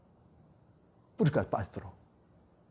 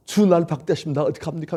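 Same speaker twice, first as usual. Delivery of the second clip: crying prayer; 2 semitones higher, 5 dB louder than usual. Acted. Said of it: "하면서 막 울고".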